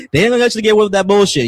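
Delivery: a sharp heads-up to trolls; forceful warning. Real, not acted. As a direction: fire it off at the chat with attitude. Repeats warning to chat, louder.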